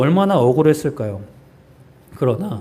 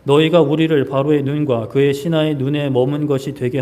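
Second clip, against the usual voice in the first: accusing people; 2 semitones lower, 3 dB louder than usual. Retold or imitated. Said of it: "이렇게 말씀합니다".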